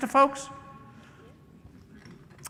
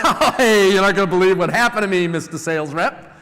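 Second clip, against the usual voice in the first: overly cheerful; 6 dB louder than usual. Pretend.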